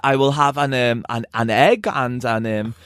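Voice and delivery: lightly imitated halting travel voice; stunted travel voice. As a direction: order haltingly, groping for each word. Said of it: "he launches into the travel voice".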